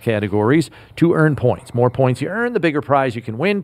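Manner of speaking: brisk, fast sponsor read; radio sponsor spot, fast. Acted. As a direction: rattle off the ad copy quickly. Host reads sponsor ad.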